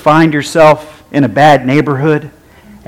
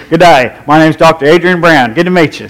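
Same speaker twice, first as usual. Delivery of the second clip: bad Australian accent. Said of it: "in the worst Australian accents we could do".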